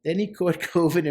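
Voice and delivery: chuckling through the line; a laugh breaks in mid-sentence; amused reread with a laugh. Real, not acted. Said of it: "I laughed out loud".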